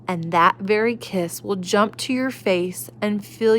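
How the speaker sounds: gentle storybook reading voice; reading to children. A narrator's reading. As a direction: read it like a bedtime story. Reading picture book to children.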